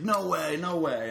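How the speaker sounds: high-pitched imitated incredulity; retold amused disbelief. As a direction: act out a friend who can't believe the story. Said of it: "and he's laughing".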